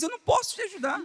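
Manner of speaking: high, hurried acted protest; mock desperation, fast and high; desperate. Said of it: "um momento desesperador".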